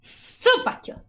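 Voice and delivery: high squeal. Acted. Repeats the compliment, squealing.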